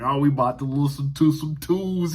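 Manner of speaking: first go at the teacher's deep voice; imitating deep-voiced teacher. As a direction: imitate a heavyset art teacher announcing music. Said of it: "He had that deep voice".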